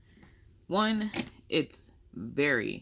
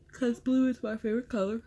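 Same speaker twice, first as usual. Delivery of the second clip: words stretched through a real yawn, higher and fast; 8 semitones higher, 3 dB louder, much faster than usual. Real, not acted. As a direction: say it mid-yawn, mouth wide open. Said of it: "Sorry, I'm yawning".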